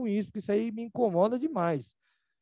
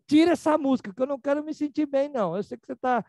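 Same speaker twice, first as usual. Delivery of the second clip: mãe irritada; 3 semitones higher, 3 dB louder than usual. Retold or imitated. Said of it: "Aí ela fala".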